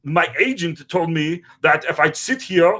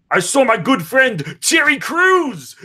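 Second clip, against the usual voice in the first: excited shout; 5 semitones higher than usual. Retold or imitated. Excited comedic retelling, sudden outburst.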